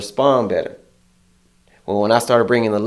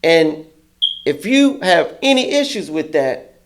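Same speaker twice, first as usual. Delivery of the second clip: mock boss speech; 5 semitones higher than usual. Manager addressing crew.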